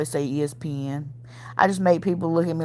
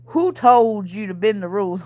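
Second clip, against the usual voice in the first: whispered retold quote. Husband caught her, retold.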